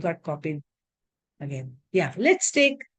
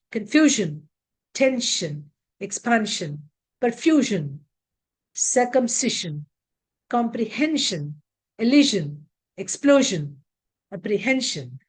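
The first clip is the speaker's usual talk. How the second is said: Confusion, expansion, apprehension, each stressed just before -sion; 2 semitones lower than usual. Shown as a demonstration. Teacher drilling -sion words, stress before the ending. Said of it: "take stress on the syllable".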